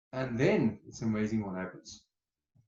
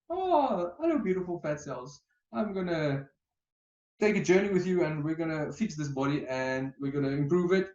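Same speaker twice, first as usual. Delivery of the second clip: higher, cooing sweet-talk to your own body; pet voice to fat cells; 4 semitones higher than usual. Shown as a demonstration. Coach demonstrating loving self-talk, lightly high cooing. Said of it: "Now use that voice with your fat selves".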